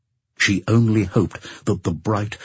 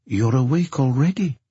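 higher, sleepy questioning voice; drowsy; 7 semitones higher than usual. A narrator's reading. Woman face against pillow asks her partner, drowsy. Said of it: "said in a drowsy voice".

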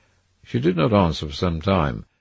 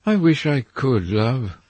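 mild pathos; 8 semitones higher, 5 dB louder, slower than usual. A narrator's reading. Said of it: "with a deep note of pathos in his voice".

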